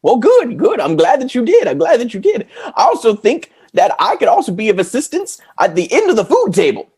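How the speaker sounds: high, goofy clown voice; lightly played silly clown. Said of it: "your clown voice".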